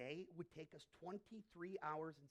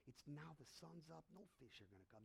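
1 weary fisherman; 5 semitones lower, 3 dB quieter than usual. Acted. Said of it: "He goes".

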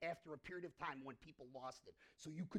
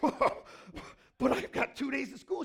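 loud, slow, whiny protest; kid protesting; 6 semitones higher, 14 dB louder, slower than usual. Retold or imitated. Boy pleads with teacher, loud, slow and whiny. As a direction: plead like a caught schoolboy. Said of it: "And I said".

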